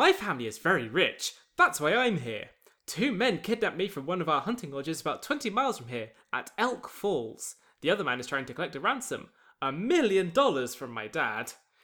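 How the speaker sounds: put-on bright, young voice that sounds wealthy. A kidnapped rich boy explains his situation, in a Richie Rich bright youth voice. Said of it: "bright young youth voice".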